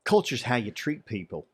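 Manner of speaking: badly faked Texas drawl, broken by pauses; terrible Texas accent. Shown as a demonstration. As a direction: have a shaky go at a Texas twang. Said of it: "Texas accent a little bit better than my Australia one".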